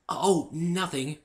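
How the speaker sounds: high, slow shy mumble; mumbled Fluttershy. A narrator's reading. Fluttershy caught laughing answers the narrator, slow and shy. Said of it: "she mumbled".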